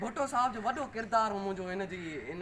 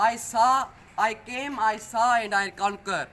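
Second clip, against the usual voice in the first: emphatic quote; 7 dB louder, much slower than usual. Acted. Recites famous quote to audience.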